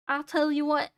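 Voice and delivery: lightly put-on Southern accent; Southern space trucker. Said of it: "I was a southern, uh, space trucker".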